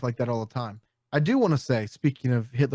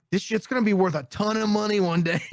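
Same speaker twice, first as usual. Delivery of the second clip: mock frantic excitement; 7 semitones higher than usual. Acts frantic plate grabber on Titanic.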